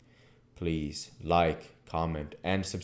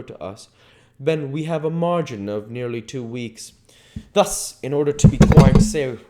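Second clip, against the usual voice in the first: put-on higher, louder voice of a learned old professor; Van Helsing; 8 semitones higher, 8 dB louder than usual. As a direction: lay out the plan like a stern, careful professor. Van Helsing explains the travel plan.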